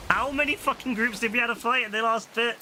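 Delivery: venting in disbelief; indignant rant. Real, not acted. Ranting about the fights.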